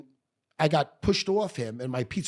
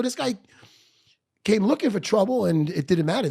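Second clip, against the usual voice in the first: higher protest; 5 semitones higher, 4 dB louder than usual. Retold or imitated. Protesting to the recruiter.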